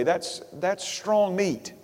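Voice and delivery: strong meat, slow and weighty; slow it right down on strong meat; drawn-out emphatic rewording. Shown as a demonstration. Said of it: "we could say it another way".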